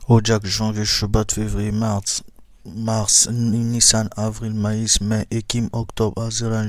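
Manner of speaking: loud, steady list of months; loud drill recital. Shown as a demonstration. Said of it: "on reprend ça maintenant en ordre".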